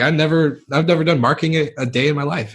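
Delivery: put-on young guy stunned by a job offer; disbelief. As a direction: sound floored by the offer. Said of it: "I was like".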